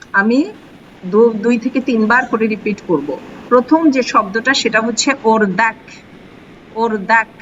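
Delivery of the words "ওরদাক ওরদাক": ওরদাক with the final k between kaf and he; careful model pronunciation. Shown as a demonstration. Teacher modelling a Persian word for students, careful pronunciation. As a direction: say ওরদাক clearly, its final consonant midway between k and h. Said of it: "একটু এটার মাঝামাঝি উচ্চারণটা".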